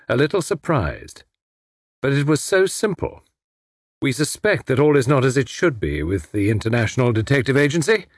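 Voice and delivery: lightly voiced smug foreign schemer; gloating villain. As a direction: explain your clever scheme with mild relish. Villain explains his scheme.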